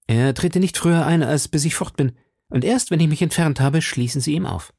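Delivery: a lightly voiced frightened wife giving orders; anxious young woman. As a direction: she rushes the plan out, afraid of her husband. Madame Bonacieux gives urgent instructions.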